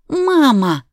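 high, loud giggling squeal. A narrator's reading. Daughter squealing at her mother while tickled. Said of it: "запищала Ника".

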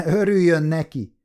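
chuckle, then answer with good humour; amused, cheerful. A narrator's reading. Judge answering the offended defence lawyer, cheerfully amused. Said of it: "felelte a bíró derűsen".

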